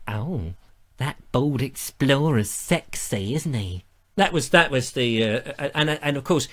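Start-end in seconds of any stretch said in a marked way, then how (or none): 0.1-3.8 lightly voiced armchair admirer; a hint of a cosy viewer swooning quietly; armchair fan. Non-technical relative in their armchair, lightly voiced admiration. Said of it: "they could sit there in their little armchair and".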